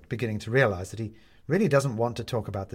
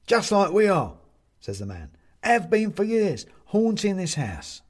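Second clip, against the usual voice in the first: ghost man; 9 semitones higher, 6 dB louder than usual. A narrator's reading. Ghost man speaks, voiced character.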